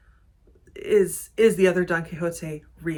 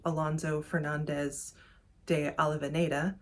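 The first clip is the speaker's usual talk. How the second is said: Spanish name read with an American accent; 3 dB quieter than usual. Real, not acted. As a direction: say "Alonso Fernandez de Avellaneda" with American-accented Spanish. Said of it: "apologies for my Spanish pronunciation".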